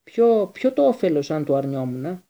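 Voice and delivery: loud, incredulous questioning; forceful, halting outrage; angry. A narrator's reading. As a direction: throw the question back furiously. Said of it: "παραμορφωμένο από το θυμό".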